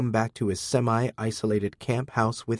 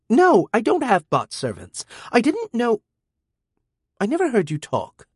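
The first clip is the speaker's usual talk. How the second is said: put-on high, sulky girl's voice; sulky and guilty; 12 semitones higher, 4 dB louder than usual. A narrator's reading. Teen girl caught being rude to the robot, sulky. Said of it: "combination of sulky and guilty".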